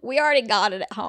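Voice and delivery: put-on Southern accent. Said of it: "doing a Southern accent".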